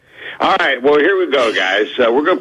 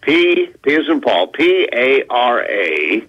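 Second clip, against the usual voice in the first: slow spelling out; slower than usual. Shown as a demonstration. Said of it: "sharpen your pencils and write this down".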